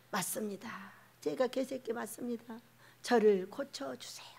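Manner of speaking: very soft, low admission; hushed acted submission; humble confession. Humble confession modelled on Syrophoenician woman.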